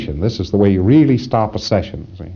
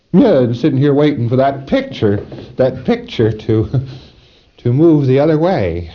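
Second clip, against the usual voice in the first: a lightly higher, louder voice for the preclear; acted preclear; 5 semitones higher, 3 dB louder than usual. Preclear answers the auditor in a lightly higher, louder voice. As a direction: play the preclear sitting there waiting.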